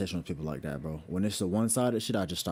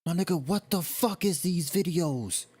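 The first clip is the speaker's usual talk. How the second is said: shocked disbelief; 9 semitones higher than usual. Real, not acted. Reacts to disturbing videos.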